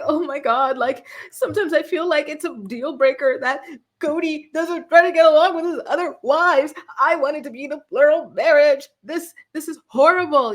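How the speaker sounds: hammed-up fake crying of a sister wife; mock whiny Robin. Mocking Robin's tearless crying, hammed-up wail. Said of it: "And she's like".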